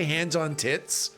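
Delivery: "hands on tits" slowed, each word set apart; careful hesitant quote. Shown as a demonstration. Streamer weighing whether to say it: slow, careful. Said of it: "I paused for a second".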